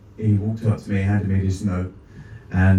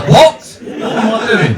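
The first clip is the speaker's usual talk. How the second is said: sudden much higher, louder squeak of surprise; playfully shocked by the miracle, higher; surprised; 10 semitones higher, 3 dB louder than usual. Pretend. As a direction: yelp at your own trick. Mock astonishment at own miracle.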